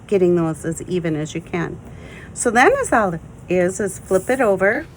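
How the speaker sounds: talking through hiccups; holding back hiccups mid-sentence; suppressing hiccups. Real, not acted. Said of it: "I have the hiccups this morning".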